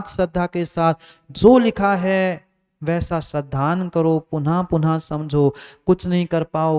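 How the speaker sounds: insistent preaching. Acted. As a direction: exhort the congregation, hammering each repeated phrase. Preaches insistently at raised pitch. (ज़ोर देकर आग्रह भरा प्रवचन)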